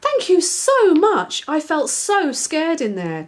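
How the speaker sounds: high, slow, shaken thanks; rescued spider thanking Daisy; trembling. Acted. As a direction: still shaking with fright. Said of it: "trembled the spider".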